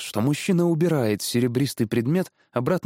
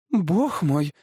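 higher-pitched, astonished wife; gasped exclamation; 6 semitones higher than usual. A narrator's reading. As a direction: gasp it out in wonder. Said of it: "ахнула женщина". (изумлённый возглас женщины)

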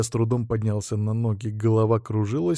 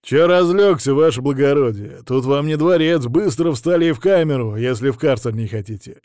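loud, rough jailer bark; 3 semitones higher, 6 dB louder than usual. Acted. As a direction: bark the orders at the prisoner. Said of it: "рявкнул надзиратель".

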